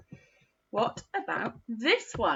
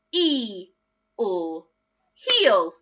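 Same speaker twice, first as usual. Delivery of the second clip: "E, or" separate, then "heel" louder; sound then blend; 4 dB louder, much slower than usual. Shown as a demonstration.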